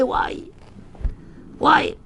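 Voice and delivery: mock cry. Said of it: "il a crié".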